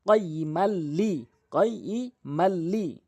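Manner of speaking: slow, drawn কয়ইমাল লি; slow spelling. Shown as a demonstration. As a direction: stretch কয়ইমাল লি. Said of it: "ইকফা গুণনা করতে হবে".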